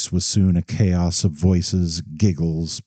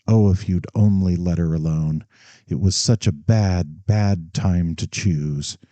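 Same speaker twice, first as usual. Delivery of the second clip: keen regret. Acted. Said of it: "crept a note of keen regret".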